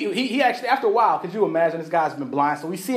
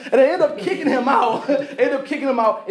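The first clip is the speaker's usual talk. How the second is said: laughing while repeating it; 5 semitones higher than usual. Real, not acted. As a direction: chuckle through the words. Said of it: "laughing repeat".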